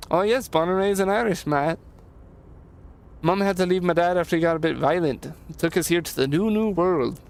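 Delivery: lightly put-on Irish lilt; a hint of Irish in a chatty character voice; attempted Irish accent. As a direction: try a mild, uncertain Irish accent. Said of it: "I think it's like an Irish accent".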